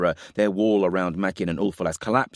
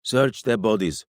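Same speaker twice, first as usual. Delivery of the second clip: slow, raised-pitch order; commanding; 4 semitones higher than usual. A narrator's reading. King ordering warriors among the dead, commanding. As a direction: order it slowly and with authority. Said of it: "Roma commanded".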